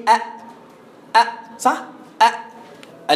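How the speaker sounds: a short, sharp أ with a clean glottal stop; isolated أ, cut off at once; full hamza. Shown as a demonstration. Teacher showing an ordinary hamza, short stopped أ. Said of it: "أنت همزة تقول لي".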